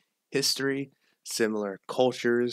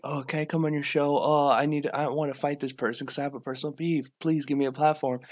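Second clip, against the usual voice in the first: lightly mocking, higher-pitched pleading; mock opportunist; 4 semitones higher than usual. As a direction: imitate a needy attention-seeker begging, lightly hammed-up. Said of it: "opportunist fame whore that's just like".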